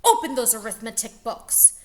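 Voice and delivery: a menacing new teacher; stern Miss Swamp. Acted. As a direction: announce yourself like a witch. Miss Swamp commanding class.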